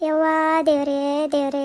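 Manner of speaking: long-drawn moan to God; grief-stricken calling on God; despairing wail. Acted. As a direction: wail each cry out to its last vowel.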